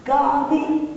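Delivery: Yes, I am teaching black literature spelled out word by word; slow it right down like to a foreigner; over-slow mock-patient reply; speaking slowly. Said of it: "If you speak slowly".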